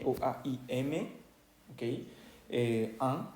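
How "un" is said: "an" as the nasal vowel of French "un"; French nasal sound. Shown as a demonstration. Teacher introducing the next sound, French nasal vowel. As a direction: sound "an" through the nose, N unsounded. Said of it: "como el número uno".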